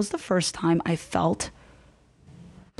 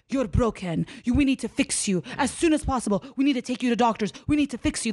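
imitating an insistent mother, pitched higher; retold urgent insistence; 4 semitones higher than usual. Mother telling her child they need doctors, mock insistent. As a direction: press each demand in a raised pitch, as a retold quote.

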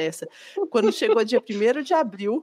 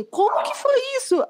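much higher, alarmed mock question; panicked boyfriend; 14 semitones higher than usual. Imitating her boyfriend's shocked high squeak on the phone.

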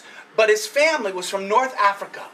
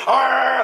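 dog growl; 2 semitones higher than usual. Acted. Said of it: "that's what he did".

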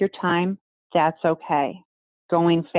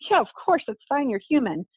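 higher-pitched, easygoing crowd answer; reassuring reply; 7 semitones higher than usual. Acted. Crowd forgives the nervous presenter, reassuring. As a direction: wave the worry away, lightly acted. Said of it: "And everyone says".

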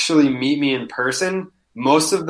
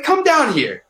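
calling out; 12 semitones higher, slower than usual. Retold or imitated. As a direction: call him down from the seats, much higher. Retold challenge to heckler.

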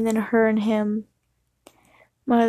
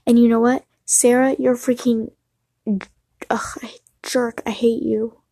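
angry outburst. Real, not acted. Telling off the classmate, angry then choked. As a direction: lash out, then break off near tears. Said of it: "I wanna say Sarah's real name".

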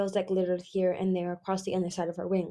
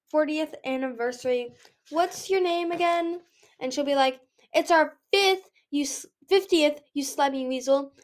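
higher, mocking playful voice; teasing Nightwing dragon; 5 semitones higher than usual. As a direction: ham up an imagined married squabble. Teasing Nightwing mimics future married couple.

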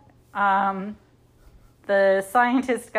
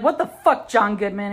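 mock outrage; 3 dB louder than usual. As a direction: confront him in hammed-up indignation. Retold angry confrontation.

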